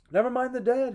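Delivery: loud, high shouted order; shouting. A narrator's reading. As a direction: bark it across the battlefield. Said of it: "Hector shouted".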